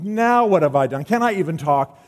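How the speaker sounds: put-on the picked-on kid brother complaining; hammed-up sulky sibling; whiny little brother. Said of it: "He goes".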